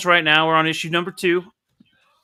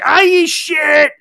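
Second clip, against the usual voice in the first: higher, louder, slow dragged-out groan of dismay; hammed-up dismay; 11 semitones higher, 7 dB louder, slower than usual. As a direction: stretch it out like a doomed cartoon priest. Priest dismayed, acted quote.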